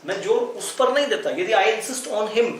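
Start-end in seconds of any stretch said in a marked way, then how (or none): 1.5-2.5 very slow, word by word; slow dictation. Shown as a demonstration. Teacher repeating the phrase to students, very slow. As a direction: drag each word for the class.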